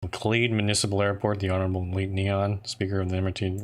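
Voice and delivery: flat, droning meeting minutes read; monotone voice. Pretend. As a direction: read it like a bored clerk. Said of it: "I have to say it in a really monotone voice".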